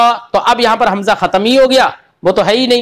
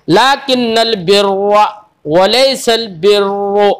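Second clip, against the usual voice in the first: slow chant with full, doubled रा; Quranic recitation; slower than usual. Shown as a demonstration. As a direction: recite slowly, thick रा in बिर्रा. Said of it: "रा को पुर पढ़ेंगे".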